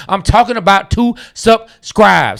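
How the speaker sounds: slow, emphatic "subscribe"; deliberate over-clear explaining; spelled out slowly. Shown as a demonstration. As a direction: stretch it out for the slow ones. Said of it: "lay it all the way out for people".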